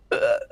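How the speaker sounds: short dumbstruck "uh"; stunned grunt. Retold or imitated. Coworker shown the pass cannot talk, stunned grunt. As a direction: imitate a speechless, stunned grunt. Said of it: "the poor bugger was so stunned".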